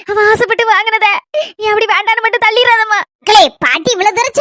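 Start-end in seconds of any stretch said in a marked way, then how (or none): 0.1-3.0 tearful plea. Acted. Grandmother pleads, others say don't cry.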